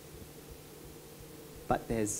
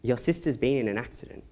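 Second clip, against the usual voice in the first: dad's really soft voice, retold; 7 dB quieter than usual. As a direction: softly break bad news as the father. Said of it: "really soft voice".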